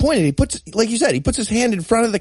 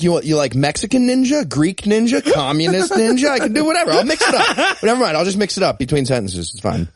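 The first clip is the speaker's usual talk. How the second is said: mock eager actor; 4 semitones higher than usual. Mocking the actor offering any ninja accent. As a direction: sell every accent like a desperate audition. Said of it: "But he was like".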